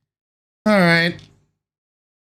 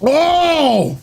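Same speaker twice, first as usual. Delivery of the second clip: sour shock; 8 semitones higher than usual. Real, not acted. First bite of level-five sour candy.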